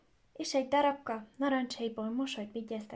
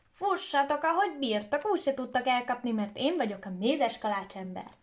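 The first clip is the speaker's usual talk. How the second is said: taunting shout; 4 dB louder than usual. Acted. Gingerbread boy taunting the horse, mild cheeky shout. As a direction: tease the horse from afar. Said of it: "aki azt kiabálta".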